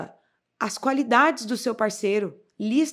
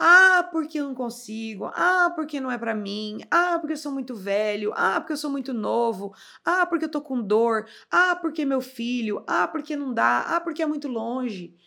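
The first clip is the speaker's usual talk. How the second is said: whining mimimi complaining; 3 semitones higher than usual. Imitating a friend who only lists problems: imitating a whiny complainer. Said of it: "vamos parar de mimimi".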